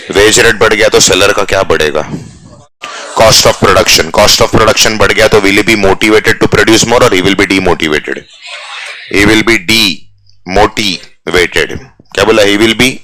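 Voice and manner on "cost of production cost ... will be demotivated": slow, drawn-out teaching voice; very slow classroom delivery; slow dictation. Shown as a demonstration. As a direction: stretch each word of cost of production. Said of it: "slow dictation to class".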